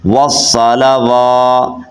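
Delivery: slow tajweed model of والصلوات; correct long waw. Shown as a demonstration. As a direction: chant والصلوات slowly as "was-salawaatu", holding "waa". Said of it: "تو آپ نے کیسے پڑھنا ہے؟".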